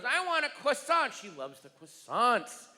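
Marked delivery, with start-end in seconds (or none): 0.0-1.1 put-on high little-girl request; daughter's voice. Comic quoting his daughter asking for a croissant, high kid voice. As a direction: ask sweetly like a small child. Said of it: "my daughter goes".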